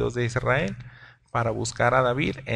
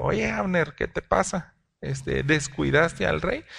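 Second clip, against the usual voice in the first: calling out raised, half-performed; retold shout; 3 semitones higher than usual. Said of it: "David le está gritando". (David le grita a Abner desde lejos, un grito leve y agudo)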